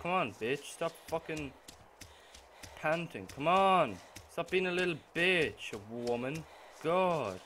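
annoyed yell. Real, not acted. Yelling at slow character.

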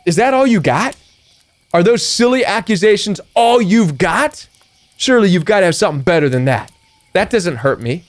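unbothered dare; defiant taunt. Pretend. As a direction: brush off the accusations. Defiant reply to accusations.

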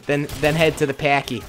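badly faked Boston accent; attempted Boston accent. Shown as a demonstration. Local gamer demonstrates his poor Boston accent. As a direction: have a go at a classic Boston accent. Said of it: "I'll try the classic".

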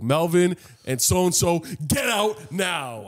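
hint of a strict teacher kicking them out. Retelling the strict teacher ordering them out, slowly. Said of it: "the fucking teacher was like".

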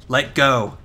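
mock stern order. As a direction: say it like telling someone to back off. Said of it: "the most stern tone ever".

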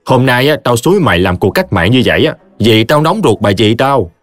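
admonishing friend. Acted. Khải coaching Triệu to confront his wife, insistent. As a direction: talk a pal out of drinking.

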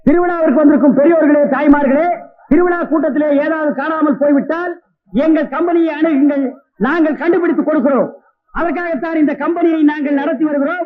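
festival announcer. Acted.

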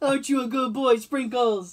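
lightly cooing at a dog; baby talk to dog. Pretend. Mourner petting the funeral dog, light cooing. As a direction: coo at a good boy.

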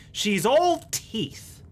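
slow, deliberate delivery; a slowed, lightly voiced character line; drawn-out line. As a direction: stretch each word out. Voicing a character line slowly.

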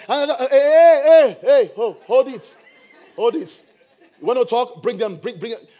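loud, slow, challenging "hey, hey"; playing a hothead daring them to bring it on; mock confrontation. Preacher acts a confrontational person.

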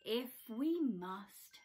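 slow, reluctant huff; grudging sigh of a word. Acted. Badger agreeing unwillingly. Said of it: "huffed Badger".

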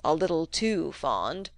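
a slow faultfinding grumble; captious. Acted. Old uncle complains to Fred about Missy's reading, slow captious grumble. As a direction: pick at it slowly and sourly. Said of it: "said Mister Featherstone captiously".

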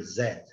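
Zed with only half the final D, barely released. Shown as a demonstration. Teacher shows students how to end Zed on half a D. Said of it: "Você termina falando a metade do D".

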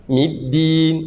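Middin with the tongue placed for ta; careful Middin; correct d. Shown as a demonstration. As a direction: say Middin with a crisp d. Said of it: "c'est là-bas que je place le da".

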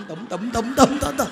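comic heartbeat noises, building; imitated pounding heart. Shown as a demonstration. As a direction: mimic a nervous heart thumping harder and harder. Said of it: "tim gan khòe phổi vậy nó tụm".

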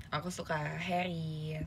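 slow, shy whisper; whispering aku suka Harry. Real, not acted. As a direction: confess it under your breath. Shy confession of bias.

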